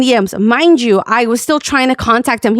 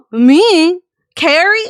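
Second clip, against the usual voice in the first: higher-pitched, questioning single words; retold incredulity; 5 semitones higher, much slower than usual. Streamer answers being called a carry-seeker, incredulous. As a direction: echo the accusation in mock disbelief. Retelling her disbelief at accusation.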